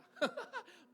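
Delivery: high, loud jeering laugh; hammed-up high cackle of ridicule; imitated mocking laugh. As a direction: laugh at him like an onlooker. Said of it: "Orang di sana ketawa".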